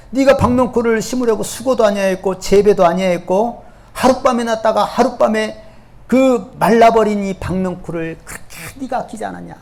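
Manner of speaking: God scolding. Acted. 하나님의 꾸짖음 재연.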